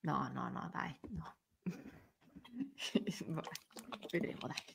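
bisbiglia quasi senza voce; sussurrando. Real, not acted. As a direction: abbassa la voce, complice e imbarazzata. Scherzo imbarazzato sulle parolacce. (sussurro imbarazzato)

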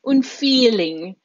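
"un feeling" said slowly, Italian style; Italian pronunciation. Shown as a demonstration. Teacher modelling the Italian "un feeling" slowly. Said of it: "They also say things like feeling".

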